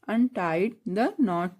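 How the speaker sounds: untie the knot very slowly, each word stretched; slow drill. Shown as a demonstration. Teacher slowly modelling the phrase for pupils. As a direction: draw it out so the class can repeat. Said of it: "English में बोलेंगे".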